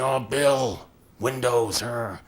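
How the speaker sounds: mock exasperated grumble, drawn out; openly exasperated groaning. Coach mimics Steve Jobs openly frustrated with Bill, mock exasperated. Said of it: "They're getting frustrated".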